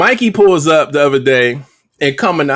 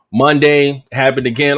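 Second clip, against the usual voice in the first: ordinary delivery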